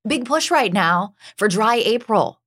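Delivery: lightly put-on newsreader delivery; news voice. Shown as a demonstration. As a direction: announce it like a TV anchor. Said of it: "say this in my news voice".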